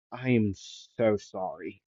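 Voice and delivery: slow down and apologise softly; acted apology. All Might apologising to injured student.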